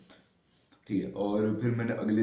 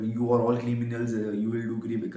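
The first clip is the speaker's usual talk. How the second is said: slow, drawn-out accusing English, lightly voiced; a hint of a dramatic TV-serial teacher; mock stern teacher; much slower than usual. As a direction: lecture the class slowly like a preachy teacher. Teacher scolding whole class.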